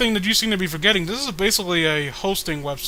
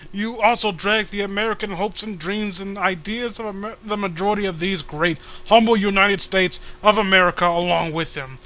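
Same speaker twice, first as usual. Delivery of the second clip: mock patriotic speech; 2 semitones higher than usual. Hero lecturing the troll, mock patriotic oratory. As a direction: read it like a grandstanding senator.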